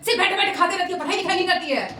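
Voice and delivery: high, nagging mother's rebuke; scolding mom. Retold or imitated. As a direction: nag like an irritated mom. Teacher voicing scolding mother. (डांटती हुई mummy की नकल, ऊँची आवाज़ में)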